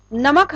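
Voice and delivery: नमक with the weight on म; stress on म. Shown as a demonstration. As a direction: press on the middle म of नमक. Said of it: "इसमें म पर बल दिया जा रहा है". (नमक में म पर बल)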